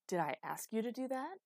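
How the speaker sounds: heated, rising question; angry challenge. Acted. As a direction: demand it accusingly. Acted quarrel, Thunder challenges him.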